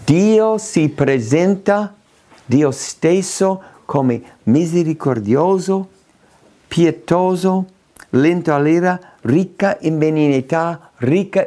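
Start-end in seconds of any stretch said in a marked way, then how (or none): none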